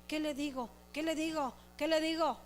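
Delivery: hushed, at a loss; flustered embarrassment. Acted. Embarrassed leader confronted by the pastor, quietly flustered. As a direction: repeat it softly, as if caught out. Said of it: "uno se pone de mil colores".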